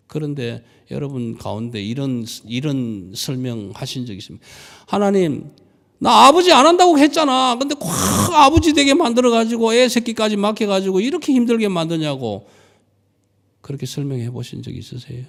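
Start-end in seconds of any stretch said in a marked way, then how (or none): 4.9-12.5 high, loud, exasperated complaint; exasperated shout at God. Acted. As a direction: yell it at God like a worn-out father. Imagined believer shouting at God.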